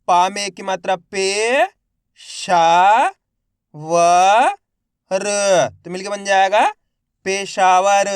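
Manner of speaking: मज़ेदार stretched very slowly and loudly; syllable by syllable demo. Shown as a demonstration. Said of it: "मेरे साथ साथ इनको repeat करना है". (अक्षर-अक्षर जोड़कर धीमे पढ़ना)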